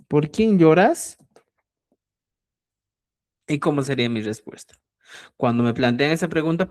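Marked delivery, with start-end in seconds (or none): 0.1-1.2 quién raised and drawn out, slowly; stress on quién. Shown as a demonstration. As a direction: lean on quién as in a question. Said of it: "Fíjate".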